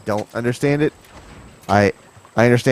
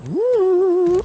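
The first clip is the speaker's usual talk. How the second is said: high, thrilled yelp; excited whoop. Real, not acted. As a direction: let out a surprised whoop mid-fall. Jump off a cliff in game.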